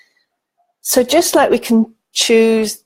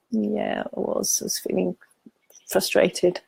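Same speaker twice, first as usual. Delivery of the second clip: small voice; 2 semitones higher, 6 dB quieter than usual. Acted. The frustrated self answering.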